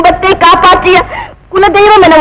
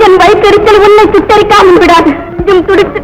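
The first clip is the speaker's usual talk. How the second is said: high, raised cursing; a higher-pitched, impassioned curse; furious curse; 4 semitones higher than usual. Acted. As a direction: call down her ruin in rage. Wife curses the goddess.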